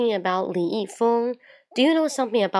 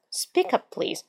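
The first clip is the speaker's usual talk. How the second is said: to someone hard of hearing; 3 semitones higher, 4 dB quieter, slower than usual. Shown as a demonstration. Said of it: "说话请大声点".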